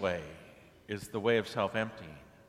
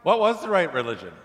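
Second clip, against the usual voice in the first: a much higher, louder exasperated crowd demand; fed up at being kept out of heaven, demanding answers; angry crowd at the pearly gates shouting up at Peter; frustrated outburst; 9 semitones higher, 10 dB louder than usual. Retold or imitated. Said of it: "they're so frustrated that finally they say".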